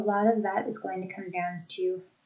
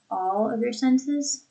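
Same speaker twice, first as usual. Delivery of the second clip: "all" lengthened and emphasized, "of your senses" lighter; stress on ALL; 3 semitones higher than usual. Shown as a demonstration. Teacher quoting the example, "all" stressed. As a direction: lean on the word "all". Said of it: "an emphasis on the word all".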